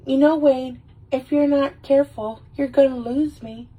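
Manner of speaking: high-pitched mock threat; high, huffy acted warning; warning ex-girlfriend. Ex-girlfriend warns Wayne, acted quarrel.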